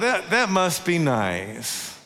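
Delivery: wistful longing. Retold or imitated. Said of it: "And I thought".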